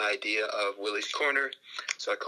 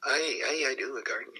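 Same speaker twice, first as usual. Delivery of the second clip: lightly imitated Scottish accent; Willie Johnson; 3 semitones higher than usual. Soccer legend answers his driver, lightly imitated Scottish accent. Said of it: "He says".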